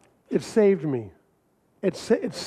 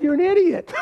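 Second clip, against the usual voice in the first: blunt put-down; 11 semitones higher, 3 dB louder than usual. Retold or imitated. Blunt retort to thumb drive guy.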